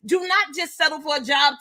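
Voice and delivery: rally them, don't settle; shouted exhortation. Real, not acted. Preaching her message to women.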